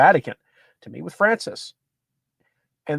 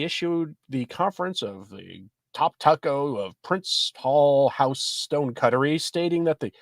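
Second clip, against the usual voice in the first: measured news-article read; reading an article aloud. Acted. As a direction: read it out from the printed page.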